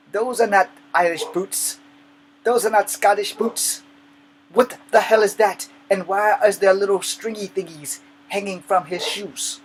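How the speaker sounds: loud, high-pitched indignant rant; hammed-up scandalized grandpa; imitating outraged grandfather. Scottish grandfather scolds grandson in moccasins, loud and high.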